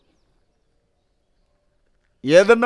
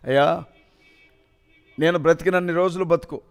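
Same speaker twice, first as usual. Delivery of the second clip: mother's tearful comfort. Retold or imitated. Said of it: "ఏడ్చి".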